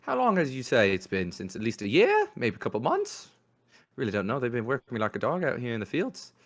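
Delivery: put-on an unpracticed Cockney street-kid squeak; bad Cockney urchin accent. Game master voices the urchin greeting Faye in a hammed-up Cockney accent. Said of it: "in a horrible accent that I have not practiced".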